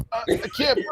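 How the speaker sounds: high, strained wheeze; mock choking. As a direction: play a gassed player gasping for air. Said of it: "players coming out ... tunnel going".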